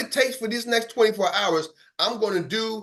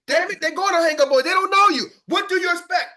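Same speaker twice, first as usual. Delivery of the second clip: much higher and louder outburst; exasperated; 11 semitones higher, 5 dB louder than usual. Real, not acted. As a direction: vent at the frustrated rookie.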